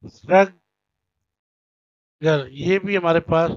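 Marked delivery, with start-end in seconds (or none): 0.1-2.5 "स्ट्रगल" stretched out very slowly; slow syllable demo. Shown as a demonstration. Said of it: "टू syllabic है".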